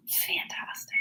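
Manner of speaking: breathy whispered sigh, slow; a soft swooning sigh of a word. Real, not acted. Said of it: "am swooning over your baby video".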